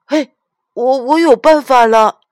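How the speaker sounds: high, loud burst of inspiration; excited child. A narrator's reading. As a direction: blurt it out like a little girl with a sudden idea. Child suddenly has an idea. (小女孩兴奋地高声喊)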